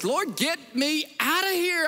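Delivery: high, urgent cry to God; panicked prayer from the back of a taxi; desperate plea. Retold or imitated. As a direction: beg the Lord to get you out. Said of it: "All I know is".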